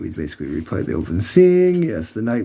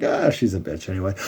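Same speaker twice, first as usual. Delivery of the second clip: laughing; 3 semitones lower, 5 dB quieter than usual. Retold or imitated.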